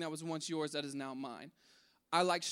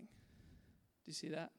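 slow breathy whisper to the congregation; whispered question; 14 dB quieter, much slower than usual. Acted. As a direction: lean in and whisper it slowly. Hushed preaching climax question.

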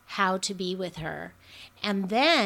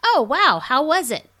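much higher and louder, delighted; excited; 7 semitones higher, 11 dB louder than usual. Shown as a demonstration. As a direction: gush with interest. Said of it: "If they say they went to McDonald's".

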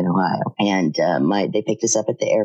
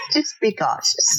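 whisper; 8 semitones higher than usual. Real, not acted. Teasing warning after laughing.

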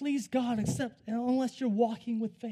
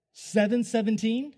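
slow, louder, questioning disbelief; incredulous question; 5 dB louder than usual. Retold or imitated. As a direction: draw it out loudly as a stunned question. Stunned reaction to the date.

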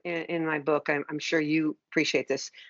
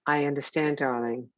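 nurturing parent voice; 3 semitones lower than usual. Shown as a demonstration. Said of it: "literally changing the voice and being warm".

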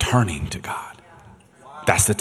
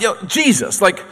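high, loud, outraged rant; furious dad demanding answers; indignant father; 11 semitones higher, 6 dB louder than usual. Retold or imitated. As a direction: confront Jesus as the grieving father. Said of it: "if I'm Jairus".

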